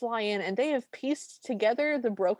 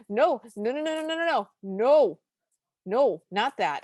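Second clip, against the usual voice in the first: emphatic refusal; 3 semitones higher, 4 dB louder than usual. Retold or imitated. Reading out notes dreading the song's reprise, emphatic refusal. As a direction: protest in mounting horror.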